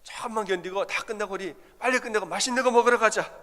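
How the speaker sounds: pep up the wife in labour with a treat; husband eagerly cheering his wife on. Retold or imitated. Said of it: "제가 이렇게 말했어요".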